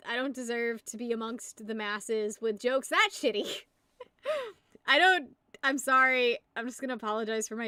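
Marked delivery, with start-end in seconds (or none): 0.1-3.5 hammed-up crying over a bad joke; fake-weep the self-pity; mock sob.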